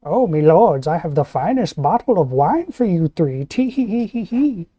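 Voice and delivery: fawning sly servant; worm tongue energy. Acted. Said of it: "worm tongue energy".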